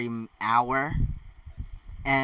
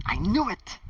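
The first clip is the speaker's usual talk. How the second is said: higher and louder, a gloating cry; triumphant; 7 semitones higher, 4 dB louder than usual. Acted. Ron crowing to Harry that he knew it, triumphant. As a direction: crow it like you called it all along. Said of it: "Ron said in triumph".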